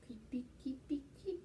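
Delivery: tiny whispered patter, like fingertips creeping; soft, whispered spider-crawl sound effect; playful whisper. Shown as a demonstration. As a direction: whisper it lightly, syllable by creeping syllable. Acting out gentle creepy finger touch.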